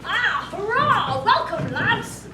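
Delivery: loud, slow, hearty greeting; jovial prince hailing his guests; hearty welcome. Acted. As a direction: boom out a jolly welcome.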